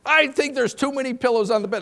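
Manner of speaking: high, loud mock protest; loud playful husband retort; husband's loud retort. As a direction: belt it back at Mildred. Husband answers wife in audience.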